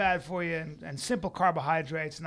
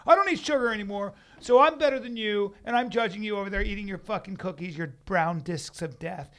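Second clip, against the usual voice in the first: mock self-righteous; 2 semitones higher, 4 dB louder than usual. Dieter judging someone eating cookies, mock self-righteous. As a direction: preach down at cookie eaters, mockingly.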